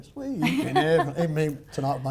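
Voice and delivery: croaky singing voice. Real, not acted. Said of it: "croaky voice".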